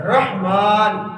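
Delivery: رحمان very slowly, "RAH-maan"; correct pronunciation. Shown as a demonstration. Teacher supplying the right form, correct pronunciation. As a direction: open "a", sounded h, long "maan" in رحمان. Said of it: "تلفظ".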